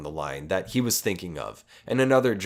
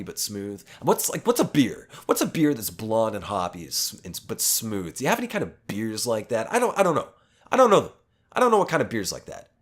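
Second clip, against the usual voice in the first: imitating the guy; 2 semitones higher than usual. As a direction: ham up a clueless pushy customer. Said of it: "And he says".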